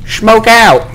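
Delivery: high, loud smoke callout; grenade warning yell. Real, not acted. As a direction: warn your team: smoke out.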